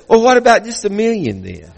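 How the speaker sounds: imitated Asian-sounding caller; Asian-sounding accent. Caller reducing the prize offer, imitated Asian-sounding accent. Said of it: "has an Asian-sounding accent".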